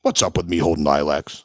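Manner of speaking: a hint of an annoyed Satan asking; offended Satan, first try. Satan complaining about his statue, lightly voiced. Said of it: "Satan's like".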